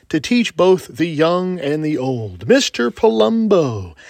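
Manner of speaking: booming showman announcement; ringmaster. Acted. Grand podcast opening announcement.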